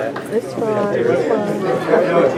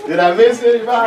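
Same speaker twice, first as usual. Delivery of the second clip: laughing; 6 semitones higher, faster than usual. Real, not acted. Joking about long volunteer list.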